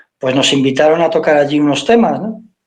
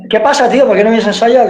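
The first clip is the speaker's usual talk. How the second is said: higher, teasing bandmate; bandmate's mock reproach; 5 semitones higher than usual. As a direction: needle him, pitched up. Bandmates calling him out.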